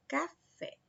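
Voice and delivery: café with the stress on fé; café, weight falling on its ending "fé"; stress on final syllable. Shown as a demonstration. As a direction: lean on the last syllable, fé, in café. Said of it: "é a sílaba mais forte".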